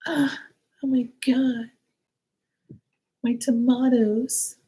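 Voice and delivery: high whispered gasp over tomatoes; breathy, high mock panic; mock distraught woman. Mimicking the neighbor's panic over her tomatoes, high and whispered. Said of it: "And she was like".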